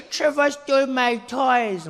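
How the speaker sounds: drawn-out whiny cry, played for laughs; mock tearful tattling. Cousin tattles to mother about stolen toys, mock crying. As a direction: wail it slowly like a wronged child.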